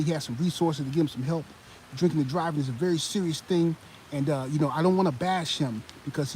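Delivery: mock the pundit's soothing, careful tone; a hint of a calm, reassuring TV pundit; imitating Stephen A Smith. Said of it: "he'll talk like this".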